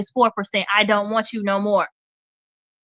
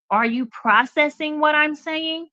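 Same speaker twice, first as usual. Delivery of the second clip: delicately; 5 semitones higher, slower than usual. Shown as a demonstration. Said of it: "I'm saying that very delicately".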